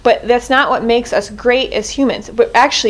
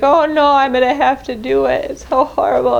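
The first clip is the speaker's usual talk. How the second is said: mock whining; 3 semitones higher than usual. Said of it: "in this passive crying state and be like".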